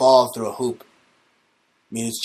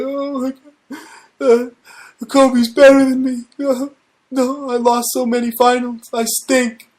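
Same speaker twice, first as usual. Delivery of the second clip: much higher put-on voice, louder; mock him as a big crybaby, pitched way up; mocking LeBron; 11 semitones higher, 4 dB louder than usual. Ranter mocking LeBron crying at home, much higher put-on voice. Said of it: "He's like".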